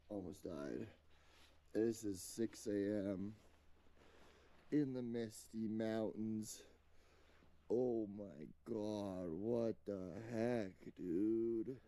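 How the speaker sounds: weak and winded from altitude; pained, breathless low voice; headache. Real, not acted. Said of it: "My head is throbbing".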